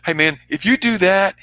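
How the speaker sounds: loose and casual, like talking to a friend; just a buddy saying it; casual buddy address. Shown as a demonstration. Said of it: "ladies and gentlemen".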